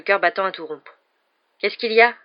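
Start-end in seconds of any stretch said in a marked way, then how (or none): 1.6-2.1 higher, louder startled question; surprised. A narrator's reading. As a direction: ask it in mild astonishment. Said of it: "s'étonna Ron".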